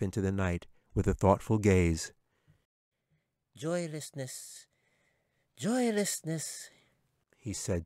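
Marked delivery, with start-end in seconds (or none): 3.5-6.7 very high, slow, soft weary sigh of a word; tired squeaky chipmunk. A narrator's reading. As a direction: drag it out, worn out and sad. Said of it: "sounding very tired".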